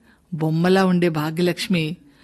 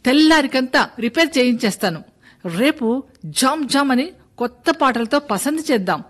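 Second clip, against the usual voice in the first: raised, higher-pitched promise to a crowd; shouting out; 6 semitones higher than usual. Acted. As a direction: call it out over the villagers' murmur. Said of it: "అరిచి అరిచి చెప్పినాడు".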